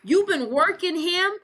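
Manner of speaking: high-pitched retold accusation; imitating an outraged ex, pitched well up; mock outrage. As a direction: act out a jilted man's indignant outburst. Dean accuses Max of cheating.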